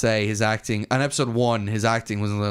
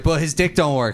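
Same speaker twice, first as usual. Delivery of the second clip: Sansa; 5 semitones higher, 4 dB louder than usual. Retold or imitated. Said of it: "and Sansa's like".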